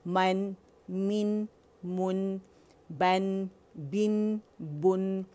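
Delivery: slow syllables with nun sakin; tanween drill. Shown as a demonstration. Teacher drilling students on tanween. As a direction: drill each nasal ending. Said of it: "मीम फतहतैन मन".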